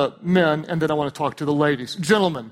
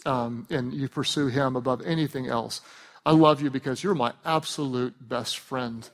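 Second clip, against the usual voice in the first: lower, gently spoken endearment; tender sincerity; 4 semitones lower than usual. Shown as a demonstration. Husband telling his wife why he loves her, tenderly. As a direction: say each reason as a heartfelt love note.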